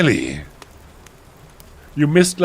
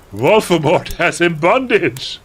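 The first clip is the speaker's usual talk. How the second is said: mock alarm; 8 semitones higher, 6 dB louder than usual. A narrator's reading. Character announces alarming vision.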